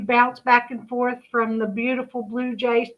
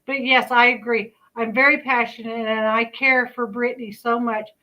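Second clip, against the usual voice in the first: speaking without dentures; talking with missing teeth. Real, not acted. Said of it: "I forgot to put my teeth in".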